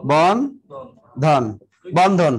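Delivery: বন্ধন drawn out very slowly; slow demo. Shown as a demonstration. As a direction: stretch বন্ধন into its two parts. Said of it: "এভাবে". (এভাবে ধীরে টেনে বলা)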